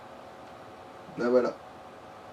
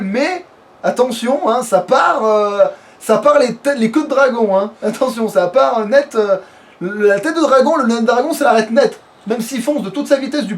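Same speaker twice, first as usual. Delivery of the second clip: louder, higher, hammed-up hype about a game armour; mock epic hype; 4 semitones higher, 5 dB louder than usual. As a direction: sell it like a trailer voice-over, half joking. Hyping up a game armor.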